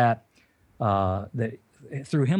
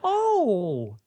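laughing till it sounds like crying; 9 semitones higher, much slower than usual. Retold or imitated. Retelling wife's surprising reply.

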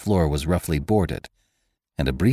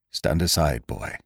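slightly shaking voice; 4 semitones lower, 4 dB quieter than usual. A narrator's reading. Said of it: "for once his voice shook slightly".

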